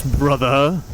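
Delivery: dramatic villain growl on brother; Liquid impression. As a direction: lean into the word like a rival sibling. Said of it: "when he sounded like this".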